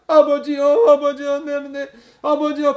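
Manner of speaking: put-on high, insistent child's plea to a father; imitating crying, wheedling prayer; tearful begging. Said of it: "막 울면서".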